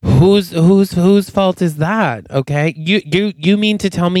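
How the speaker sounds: heated retort with repeated starts; indignant comeback. Acted. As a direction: throw the blame back, tripping over it. Acted argument between podcast partners.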